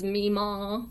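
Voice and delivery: drawn-out Southern vowels; lightly put-on Southern accent; imitated Southern accent. Imitating a friend's pet word, Southern accent. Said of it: "she makes it very Southern".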